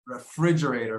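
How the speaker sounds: "Refrigerator" stressed on FRIDGE; second-syllable stress. Shown as a demonstration. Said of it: "second syllable".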